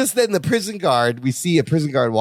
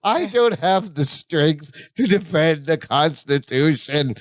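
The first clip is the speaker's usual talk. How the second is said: whiny; 2 semitones higher, slower than usual. Retold or imitated. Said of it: "he's become very whiny".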